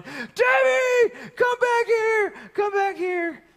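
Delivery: high shouted call; calling the dog. Retold or imitated. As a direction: yell after a runaway dog. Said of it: "I'm running".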